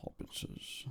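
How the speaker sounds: hissed, breathy Gollum. Pretend. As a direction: hiss it like a creature. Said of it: "a good Gandalf impression".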